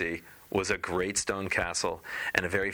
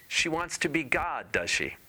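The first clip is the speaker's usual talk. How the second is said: incredulous fish; 8 semitones higher than usual. Acted.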